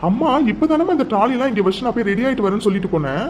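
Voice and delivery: son's surprised indignation; indignant protest. Acted. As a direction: defend yourself against mom. Son protests mother's accusation.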